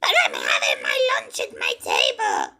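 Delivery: deep monster voice. Pretend.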